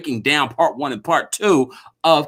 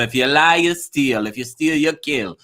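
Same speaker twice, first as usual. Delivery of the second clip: lightly put-on Jamaican accent; Jamaican mother. Co-host quoting her mother's warning about liars, light Jamaican accent. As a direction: imitate a mother's proverb with a hint of Jamaican. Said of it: "That's your Jamaican voice?".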